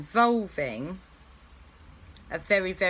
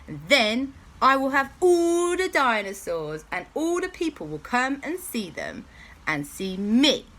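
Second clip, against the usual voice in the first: higher, louder bragging villain; boastful villain; 7 semitones higher, 4 dB louder than usual. Acted. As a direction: brag about being cool.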